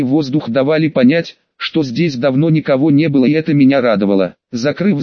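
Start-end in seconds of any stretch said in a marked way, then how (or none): none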